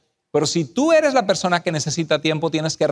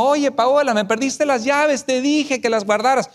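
raised voice; 6 semitones higher than usual. Retold or imitated. Husband snapping at wife over lost keys, voice raised. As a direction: scold her about the lost keys, voice raised.

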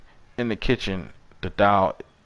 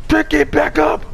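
exasperated yell; 13 semitones higher, 5 dB louder than usual. Real, not acted. Gamer yelling at a teammate who keeps dropping it, exasperated. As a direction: plead loudly at the teammate.

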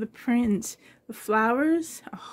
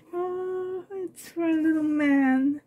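choked up; 3 semitones higher than usual. Real, not acted. Moved by baby clothes.

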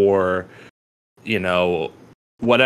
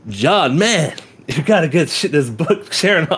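high put-on accent, badly hammed; deliberately terrible accent impression of a teacher; Winston, horrible accent; 8 semitones higher than usual. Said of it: "I'm doing a horrible fucking accent".

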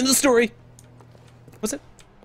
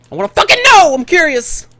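high-pitched, emphatic demand; worked-up, higher-pitched exclamation; insistent outcry; 8 semitones higher, faster than usual. Real, not acted. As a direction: burst out with impatient curiosity. Repeats demand, escalating.

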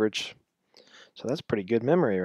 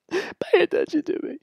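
high squeaky cartoon voice; 4 dB louder than usual. Laughing demand for attention.

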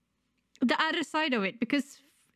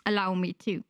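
normal talking voice

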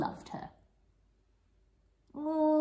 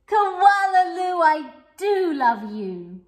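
much higher and louder, bursting with joy; joyful mother; 9 semitones higher, 10 dB louder than usual. Acted. Mother flinging arms round her winner, overjoyed. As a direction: throw your arms out and cry it. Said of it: "fling her arms around her and say".

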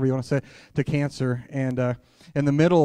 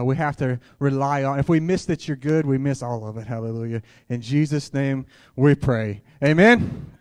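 louder prayer voice, pressing on each line; fervent prayer; 3 dB louder than usual. Acted. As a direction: pray out with rising passion. Opening prayer in a sermon.

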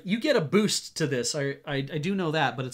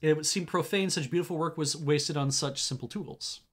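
lore read in a storybook voice; story narration. A narrator's reading. Player reading item descriptions to viewers, storyteller voice. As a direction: narrate the item text evenly.

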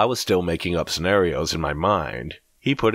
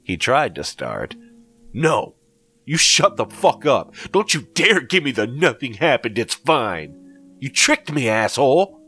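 much higher, much louder furious scream; screaming in rage; 9 semitones higher, 5 dB louder than usual. A narrator's reading. Narrator exploding at Greg for tricking him, screaming. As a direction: scream the accusation into his face. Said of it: "I screamed at him".

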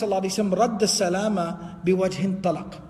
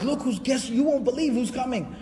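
excited messenger breaking news, pitched up; lightly acted excitement, higher voice; 4 semitones higher than usual. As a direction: imitate someone running in with big news. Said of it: "you know, very excited".

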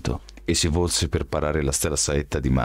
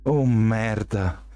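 high, slow "Oh merda!"; alarmed exclamation; 6 semitones higher, much slower than usual. A narrator's reading. Shelby sees the two raise their arrows, slow high alarm. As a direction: exclaim in shock, stretched out. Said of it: "esclamò Shelby".

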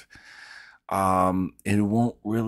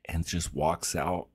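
whispering; 3 semitones lower, 7 dB quieter, slower than usual. Real, not acted. Whisper carried on.

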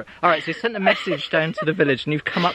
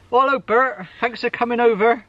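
put-on posh lord, higher pitched; 8 semitones higher, 4 dB louder than usual. Lord welcoming carpenter Bert to his door, posh voice. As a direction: greet the tradesman in a high, posh voice. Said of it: "It's my posh voice".

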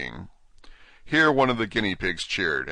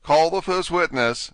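king voice; 10 semitones higher, 6 dB louder than usual. Acted. King commands the court.

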